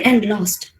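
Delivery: low, downcast and lost; demonstrated dejection, pitch sinking. Shown as a demonstration. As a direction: let it drop as if defeated. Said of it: "my audience should feel that I was lost".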